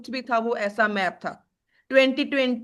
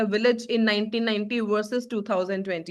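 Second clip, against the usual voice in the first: slow dictation; 2 semitones lower, much slower than usual. Shown as a demonstration. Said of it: "teacher dictating an English example".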